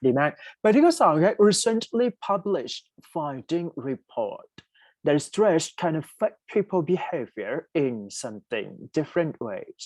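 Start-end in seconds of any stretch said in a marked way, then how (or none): 1.5-9.8 very slow, careful word-by-word read; slow dictation. Shown as a demonstration. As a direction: read the item aloud slowly for students. Reads question two slowly. (อ่านโจทย์ข้อสองช้าๆ)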